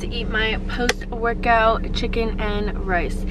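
talking while chewing; words round a bite of food; mouth full. Real, not acted. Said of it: "Stop, stop talking with your mouth full".

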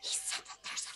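whisper. Acted. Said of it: "tap on her shoulder and go".

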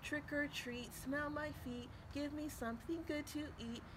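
little frog rehearsing his rhyme; practicing trick or treat. Acted. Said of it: "And he practiced".

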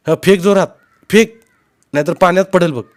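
high, loud urging; shouted instruction. A narrator's reading. Uncle telling boy to throw hard, shouting. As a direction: call orders across the water.

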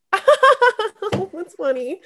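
high, slow, laughed-out mock reply; retold disbelieving laugh. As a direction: laugh it off as a joke, drawn out. Retold disbelieving laugh at coach's news.

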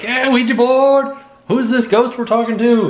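put-on high, slow childish voice; mock kid voice. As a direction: ham up a giddy kid. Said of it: "I was like".

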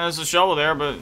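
ordinary talk, nothing marked

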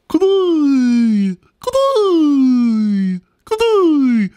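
high, loud repeated greeting; chubby koala. Acted. Clemmy greets everyone with a high, loud koala voice. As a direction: call it out like a dopey koala. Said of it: "all he ever said was".

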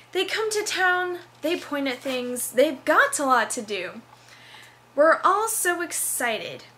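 spoken song lyrics declaimed with big theatrical swoops; dramatic reading. Shown as a demonstration. College student reading her play's song for YouTube, hammed-up dramatic reading. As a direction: recite the musical number like a hammy stage actor. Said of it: "a dramatic reading".

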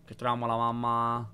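hushed whisper while sneaking. Real, not acted. Creeping through the dark house, whispering. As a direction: breathe the words out, no voice.

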